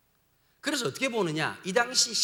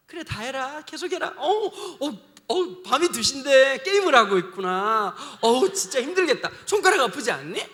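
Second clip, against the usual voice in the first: mock indulgent parent; 2 semitones higher, 5 dB louder than usual. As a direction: pretend to coddle a gamer at 2am. Imagined indulgent parent, ironic.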